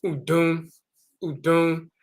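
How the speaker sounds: "udun" as oo-doon, nasal end; ancient Kemet word. Shown as a demonstration. Teacher pronouncing the Kemet comparison "udun". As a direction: say "udun" slowly twice. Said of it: "This is pronounced".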